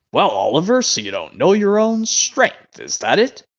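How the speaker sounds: drawn-out, swooping storybook scolding; Carlin impression. Fan doing Carlin as the controller addressing Oliver, storybook impression. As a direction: lecture it slowly like a children's narrator. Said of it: "now do Carlin".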